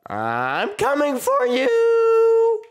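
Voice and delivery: rising, high drawn-out call; playful battle cry. Pretend. Player hunting an opponent in a game, playful battle cry. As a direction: call out a long, climbing threat.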